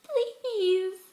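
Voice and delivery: high, loud, tearful please; crying plea. Acted. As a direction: let the word break into a sob. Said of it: "She cried".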